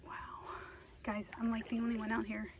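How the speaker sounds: quiet unvoiced whisper. Real, not acted. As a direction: whisper alone in the swamp. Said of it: "I don't know why I'm whispering".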